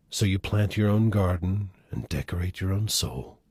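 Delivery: measured, earnest poem recital; gentle reading of a poem. Acted. Reads a requested poem.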